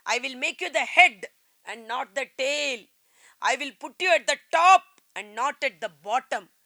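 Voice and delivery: very slow, loud, word by word; slow emphatic quote. Real, not acted. Preacher quoting scripture to congregation, slow and loud. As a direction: spell out each word of the promise.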